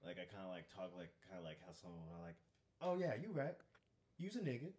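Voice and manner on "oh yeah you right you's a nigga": put-on higher-pitched Black girl accent; higher voice mimicking a Black girl's accent. Shown as a demonstration. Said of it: "a black accent of a black girl".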